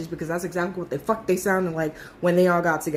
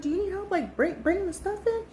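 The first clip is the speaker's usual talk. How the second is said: high eager offer; 10 semitones higher, 5 dB quieter than usual. Retold or imitated. Girls offering help to new dancer.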